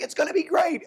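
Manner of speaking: hammed-up upbeat central banker; the Fed. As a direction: parody the Fed's rosy forecast. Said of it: "the Fed is like".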